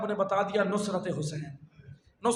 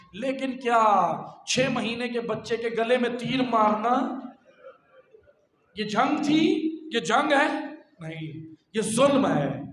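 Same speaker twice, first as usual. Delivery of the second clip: raised, challenging sermon delivery; impassioned preaching; 3 semitones higher, 3 dB louder than usual. Acted. Preacher challenging Muslims about the killing of a child, impassioned. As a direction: fire indignant questions at the congregation.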